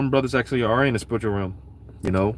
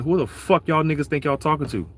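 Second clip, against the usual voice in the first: higher-pitched, indignant challenge; mock cursing out; 4 semitones higher than usual. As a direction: voice the Lord telling them off, pitched up. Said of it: "the Lord is cursing Jake out".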